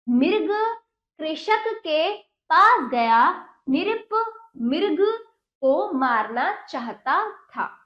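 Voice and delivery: very slow, emphatic word-by-word reading; deliberate dictation-like story reading; read-aloud lesson. Acted. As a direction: read it out slowly for young pupils, pausing between words.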